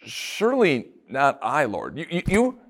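questioning. Retold or imitated. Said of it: "they say it with a question".

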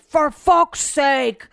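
slow, drawn-out exasperated groan; mock-imitating husband's disgust.

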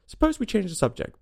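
through a yawn. A narrator's reading. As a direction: yawn while saying it.

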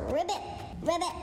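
frog ribbits. Pretend. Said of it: "I am Ross the Frog".

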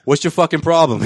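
retold confrontation, pitch lifted; dead serious. Sean confronting a stranger over Brady, dead serious. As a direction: challenge him in dead earnest. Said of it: "Just dead serious".

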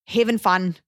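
South African accent, lightly put on. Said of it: "That's a pretty good Australian, South African accent".

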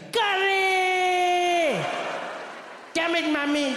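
high, long-drawn scream of outrage; top-of-lungs scream. Retold or imitated. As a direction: scream the first word high and drag it out, then curse. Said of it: "he'd scream at the top of his lungs".

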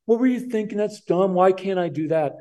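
put-on a teen snapping at his dad; outraged teen. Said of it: "they should say".

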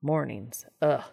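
lightly voiced groggy groan; a hint of a heavy, just-woken grumble; sleepy cracking voice. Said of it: "His voice was heavy and sleepy, cracking".

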